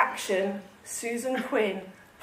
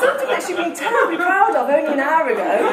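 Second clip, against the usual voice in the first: laughing; 4 semitones higher, 3 dB louder than usual. Real, not acted. Reader laughing through narration.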